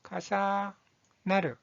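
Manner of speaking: 가사나르 slowly, with a pause after 가사; pronunciation demo. Shown as a demonstration. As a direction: model 가사나르 in two slow chunks. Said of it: "이 한자의 발음은".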